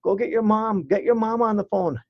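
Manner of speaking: a thrilled parent shrieking with relief; excited parent on phone. Retold or imitated. A parent on the phone hearing their child was found, high and overjoyed. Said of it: "you'd hear the person on the other line go".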